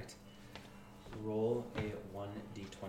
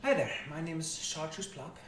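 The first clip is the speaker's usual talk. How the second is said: bright chipper greeting, raised pitch; lightly voiced friendly shopkeeper; cheery shopkeeper; 4 semitones higher than usual. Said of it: "And she goes".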